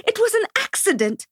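mother shouting at the woman who hit her son. A narrator's reading. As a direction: shout it in defense. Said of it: "I shouted".

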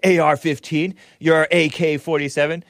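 high-pitched mock politician's rallying cry; Beto. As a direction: quote the politician with mocking, over-eager punch. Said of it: "He says".

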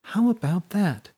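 high, sly ironic question; wry triumph. Acted.

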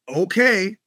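short, ominously accepting okay; Jimmy the Gent. Retold or imitated. Gangster answering the party brush-off, ominous okay. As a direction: lightly imitate a gangster letting it drop. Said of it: "Jimmy the Gent kind of okay".

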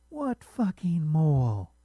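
loud, slow, spitting each word; slow, loud, outraged challenge; furious demand. Acted. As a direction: bite off every word in rage. Wife furious, about to hit him.

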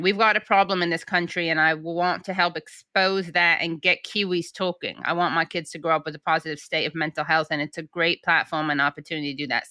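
a weak attempt at a New Zealand accent. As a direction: quote him in a light Kiwi accent. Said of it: "Sorry, I don't have a good New Zealand accent".

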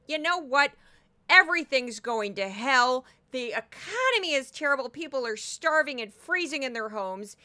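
mildly mock-alarmist TV pundit; Tammy Bruce. Podcaster mimicking a Fox host's doom talk, mock alarm. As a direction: lightly imitate a doom-laden commentator. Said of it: "Tammy Bruce is always like".

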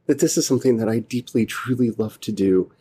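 real lump in the throat, words catching; fighting back tears mid-sentence; choked up. Real, not acted. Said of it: "Sorry, I got a little choked up there".

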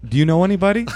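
high, rising question; hopeful asking. Retold or imitated. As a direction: imitate a naive caller asking for a referral. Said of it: "They say to me".

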